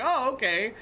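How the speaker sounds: put-on high-pitched child's acceptance; imitating his kid. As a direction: pitch it up like a kid taking it at face value. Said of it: "And he's like".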